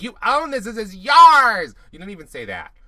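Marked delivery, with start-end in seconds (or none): 0.0-1.7 high, hugely loud hype-coach imitation; mock encouraging shout. Host imitates him encouraging contestants, exaggerated high shout. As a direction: holler it like an over-the-top motivator, drawing out the end. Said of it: "trying to encourage them".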